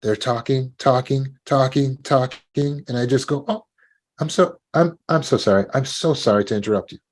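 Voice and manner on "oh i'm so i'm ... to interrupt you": a quick, apologetic cut-in that starts higher; gentle interruption. Shown as a demonstration. Stopping someone talking on and on, gently apologetic. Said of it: "It's gentle".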